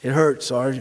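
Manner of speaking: hoarse, raspy, pained whimpering voice. A sergeant retelling what his man Jefferson answered him, Jefferson's raspy voice. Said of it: "And in a raspy voice".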